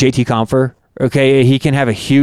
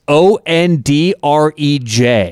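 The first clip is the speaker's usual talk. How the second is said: spelled out; slower than usual. Shown as a demonstration. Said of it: "this Andre Palat is".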